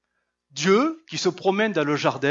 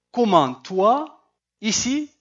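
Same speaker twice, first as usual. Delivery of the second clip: slow rising surprised question; mild surprised intonation, drawn out; 5 semitones higher, slower than usual. Shown as a demonstration. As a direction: ask it as if amazed to see him. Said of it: "j'essaie de donner l'intonation".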